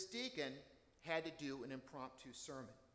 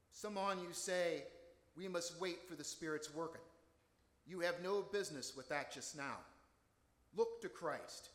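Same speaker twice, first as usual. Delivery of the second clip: put-on a light rural Essex accent, a touch higher and louder; Essex dialect; 3 semitones higher, 4 dB louder than usual. Deacon preaching to the snowy congregation in a mild Essex country accent. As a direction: play the unschooled Essex deacon plainly pleading with his flock. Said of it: "homespun discourse in his broad Essex dialect".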